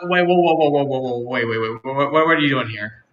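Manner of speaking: startled stammer. Acted. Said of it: "I'm gonna go".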